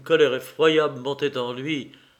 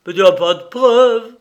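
furious shout, much higher and louder; stammered fury; 8 semitones higher, 12 dB louder than usual. Acted. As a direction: hurl the words out in a rage. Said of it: "il bégaya de nouveau".

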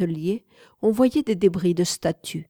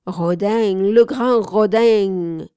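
put-on southern accent; 7 dB louder, slower than usual. A narrator's reading. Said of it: "La voix méridionale jetait toujours".

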